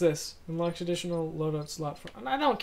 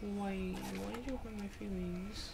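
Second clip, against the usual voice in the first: put-on childish baby voice; 9 dB quieter than usual. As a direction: pout it out like a hurt toddler. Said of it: "my childish baby voice".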